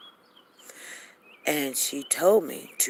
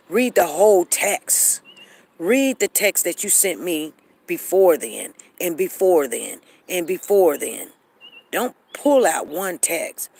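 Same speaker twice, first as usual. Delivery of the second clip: heated insistence; 5 dB louder than usual. Real, not acted. Heated rant at critics.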